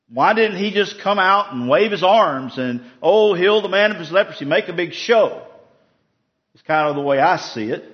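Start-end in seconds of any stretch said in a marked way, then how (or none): 0.1-5.5 higher, mildly indignant complaint; mildly upset. Retold or imitated. Preacher voicing insulted Naaman's complaint about the healing, mildly upset. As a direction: voice his miffed objection, pitched up. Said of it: "Gets angry. He's upset. He's like".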